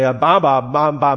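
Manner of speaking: lightly voiced baby babble; a hint of a baby repeating syllables; babbling baby. Preacher imitating Mandarin baby's first word, light babbling. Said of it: "they say".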